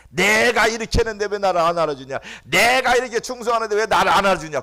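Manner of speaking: mock a believer who wants credit; mock proud complaint.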